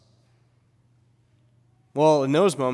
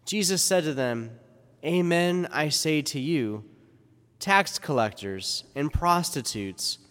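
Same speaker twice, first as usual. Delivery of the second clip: gospel reading. Acted. Gospel read at Mass.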